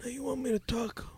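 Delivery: quick, soft-spoken screen tough; Marlon Brando. Shown as a demonstration. Impressionist answers host's request, Marlon Brando. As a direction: say it softly as a movie impression. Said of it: "Marlon Brando".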